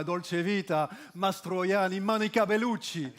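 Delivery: Italian names in an Italian accent; dreamy take on an Italian accent. Shown as a demonstration. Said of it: "l'accent italien, ça, ça fait rêver".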